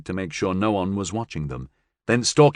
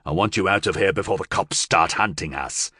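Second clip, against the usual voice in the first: menacing possessed man; 2 semitones lower than usual. Acted. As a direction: spell out the threat coldly. Possessed man sends him off.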